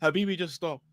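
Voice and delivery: low-key attempt at an Arab accent. Shown as a demonstration. Copying his friend for the contest, Arab accent. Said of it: "You speak Arab for fifteen seconds".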